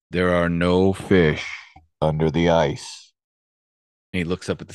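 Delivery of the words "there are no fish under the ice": slow, booming voice from nowhere. Retold or imitated. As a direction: boom it out slowly like a hidden presence. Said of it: "he hears this booming voice say".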